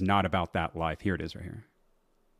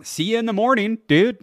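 loud mock taunt; 13 semitones higher, 8 dB louder than usual.

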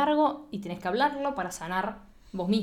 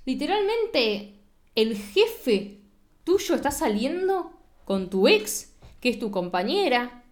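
incredulous brother; 4 semitones higher, slower than usual. Retold or imitated. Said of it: "le dice tipo".

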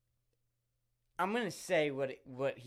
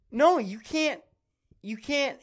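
much higher and louder pleading no; high protesting cry; 9 semitones higher, 6 dB louder than usual. Retold or imitated. Begging Noah to stop, high and loud. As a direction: beg him to stop in a squeal.

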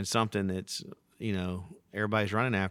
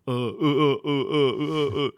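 louder, higher nervous uh-uh-uh; Hank's stammer; 6 semitones higher, 8 dB louder than usual. Retold or imitated. Dad before serious talk, mock nervous stammer. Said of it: "whenever Hank is about to say something really profound, he starts going".

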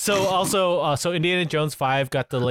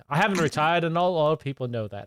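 half-hearted bad British accent; lightly put-on, unconvincing British accent. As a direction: attempt a British accent and do it badly. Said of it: "that's a bad accent".

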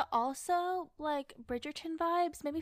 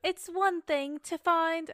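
put-on slow, slightly raised British accent; attempted British accent; 4 semitones higher, 6 dB louder, much slower than usual. Quoting a Bridgerton line to a friend, British accent. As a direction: try a drawn-out British accent. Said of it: "how do I do British accent".

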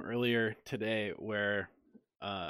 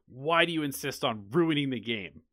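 retold screaming; 5 semitones higher, 6 dB louder than usual. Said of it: "he immediately just starts screaming at me".

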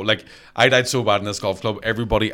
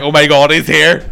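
excited squeal; 4 semitones higher, 10 dB louder than usual. Retold or imitated. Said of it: "They were all like".

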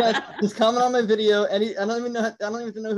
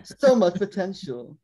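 slow, put-on British accent; drawn-out British narration, lightly done. Host shows off the British voice reading about Hannah and Wesley, mock British accent. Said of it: "I do my British voice".

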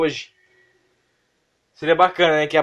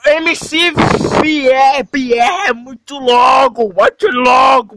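hype announcer shout; 6 semitones higher, slower than usual. Real, not acted. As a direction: announce him like a show host. Announces MC Pierre hyped. (anunciando MC gritando)

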